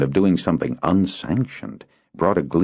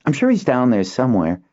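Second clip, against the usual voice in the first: put-on raised boy's voice, a bit impatient; boy Kinden; 8 semitones higher, faster than usual. Boy reassuring his friend, a touch impatient. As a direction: wave the worry off.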